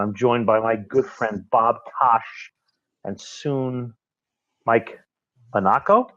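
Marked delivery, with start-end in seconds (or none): 5.5-6.1 Monaco with the stress pushed onto the wrong syllable, Ron Burgundy style; wrong-syllable emphasis. Pretend. Host teasing guest Mike by mispronouncing his name, mock newsman stress. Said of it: "You put the emphasis on the wrong syllable".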